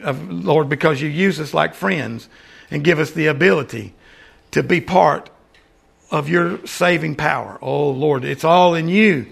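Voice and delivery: earnest spoken prayer, steady and unhurried; closing prayer. Acted. Pastor leads congregation in closing prayer, earnest prayer voice. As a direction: talk to the Father as in church.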